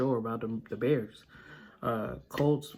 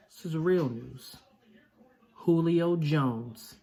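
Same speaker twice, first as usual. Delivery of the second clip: excited; 4 semitones higher, slower than usual. Real, not acted. Insisting the signing is real.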